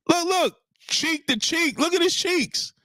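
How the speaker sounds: high and slow, savoring each word; amazed disbelief. Real, not acted. Vlogger marvelling at the hug, high and slow. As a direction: stretch it out in disbelief.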